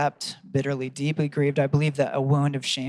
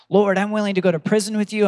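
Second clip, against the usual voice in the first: bold vow; 6 semitones higher, 6 dB louder than usual. Retold or imitated. Peter's bold vow retold.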